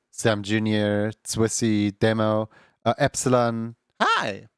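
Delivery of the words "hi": cracked, breaking hi. Real, not acted. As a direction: voice cracking on a greeting. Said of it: "that was a voice crack and a half right there".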